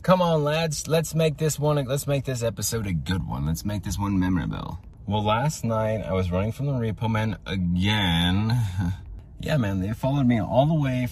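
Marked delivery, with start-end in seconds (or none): 0.0-4.8 put-on rallying the lads in a raised English accent. Host opening his podcast for the boys, put-on English accent. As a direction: play a plummy English captain, higher pitch.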